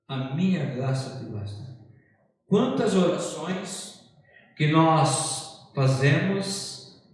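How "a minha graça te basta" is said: softer, lower repeat of a divine reply; God's answer. Retold or imitated. Preacher repeats God's word to Paul, quiet and low. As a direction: let the quoted assurance settle low and soft. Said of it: "Aí vem essa palavra".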